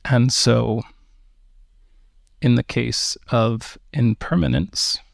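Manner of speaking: measured meditation guidance with long pauses; unhurried meditation teacher, phrase by phrase; guided meditation. Acted. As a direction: guide listeners gently into the breath, leaving space between phrases.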